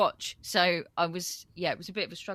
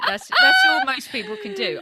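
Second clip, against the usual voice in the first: mock Southern accent; 13 dB louder than usual. Mocking her own accent attempts.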